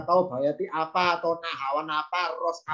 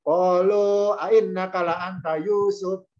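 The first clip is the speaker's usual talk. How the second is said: rising question tune; 2 semitones higher, 3 dB louder, slower than usual. Shown as a demonstration. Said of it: "kata tanya ini tinggi".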